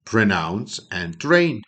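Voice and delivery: drawn-out motto, falling on train; teacher's slow model phrase; very slow, deliberate. Shown as a demonstration. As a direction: say it slowly so students copy it. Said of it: "Треба вимовляти та промовляти".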